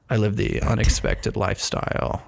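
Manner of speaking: creaky vocal fry, pretentious. Acted. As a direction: drag the words through vocal fry. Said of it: "with vocal fry".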